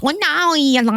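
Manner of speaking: high-pitched, failed Hispanic accent; badly faked Hispanic accent. Shown as a demonstration. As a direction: attempt a Hispanic accent and miss. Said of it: "try to do, like, a Hispanic accent".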